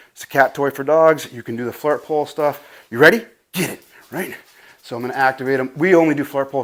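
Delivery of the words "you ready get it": playful hype. Real, not acted. Hyping dog for flirt pole.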